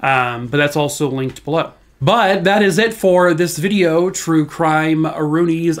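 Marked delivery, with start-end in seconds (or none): 2.0-5.8 hoarse, strained outro; scratchy voice. Real, not acted. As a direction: push through a scratchy throat. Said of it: "it's all scratchy".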